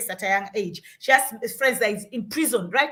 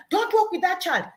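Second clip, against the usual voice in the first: raised, higher warning; parent's warning; 7 semitones higher than usual. Retold or imitated. Parent forbidding the friend, raised voice. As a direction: warn the child off sharply. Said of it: "By you telling her".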